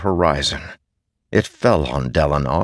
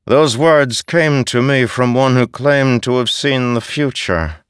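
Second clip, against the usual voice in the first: haunting voice; 6 semitones higher than usual. A narrator's reading. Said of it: "the haunting voice continued".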